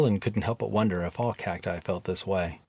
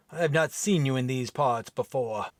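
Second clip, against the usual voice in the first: mild irritated Viking; 3 semitones higher than usual. Acted. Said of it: "rough, deep brogue accent".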